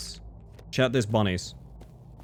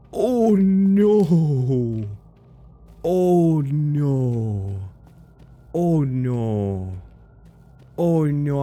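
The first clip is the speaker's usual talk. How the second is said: alarmed oh no; 6 semitones higher, 4 dB louder, much slower than usual. Real, not acted. Sudden game mishap, laughing dismay.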